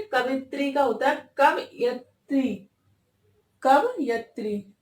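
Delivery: कवयत्री said very slowly, कव-यत्-री; slow correct form. Shown as a demonstration. Teacher stressing an exam favourite, slow careful form. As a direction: stretch कवयत्री for the class to copy. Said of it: "very, very important".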